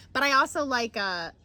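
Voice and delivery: put-on playful Michigan Yooper accent; folksy Yooper complaint; Upper Peninsula accent. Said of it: "a little U P".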